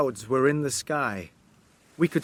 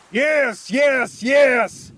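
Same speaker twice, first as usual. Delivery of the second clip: high, growing louder yes; mad shout; 10 semitones higher, 6 dB louder, much slower than usual. Acted. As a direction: scream it out in madness. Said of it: "Cornelius shouted".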